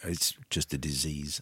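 rough, slow, hoarse voice. Real, not acted. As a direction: croak it out with a sore throat. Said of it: "as you can hear".

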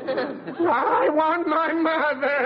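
slow, small scared voice; slow scared child wanting mum; frightened whimper. Acted. Stage fright.

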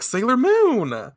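high, slow call of a name. Retold or imitated. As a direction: call out across the scene. Mars and Venus calling out.

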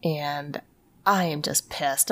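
ordinary delivery

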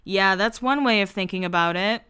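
dry, understated deadpan retort; deadpan Spencer. Retold or imitated. Brother answering his sister's unhelpful remark, deadpan. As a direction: imitate a dry, unimpressed comeback. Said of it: "And deadpan Spencer".

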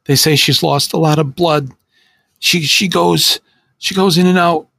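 high, tearful and pleading; a scared teen falling apart; breaking down. Acted. Teen on the phone to his friend, high and tearful. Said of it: "He broke down uncontrollably".

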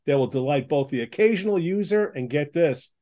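upbeat radio ad read; chipper 1950s ad. Acted. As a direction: sell it like an old-time announcer. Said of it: "I'll read this for you".

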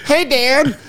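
high squeaky puppet voice. Pretend. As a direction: chirp it like a sock puppet. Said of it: "she's like".

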